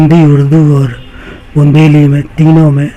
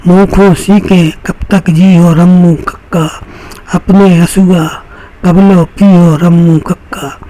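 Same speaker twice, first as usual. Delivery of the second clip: rhythmic Bundeli verse recital; measured poetic delivery with repeated refrain; poem recitation; 2 semitones higher than usual. Acted. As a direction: recite it line by line to an audience, leaning on the refrain. Recites his refrain poem before introducing himself.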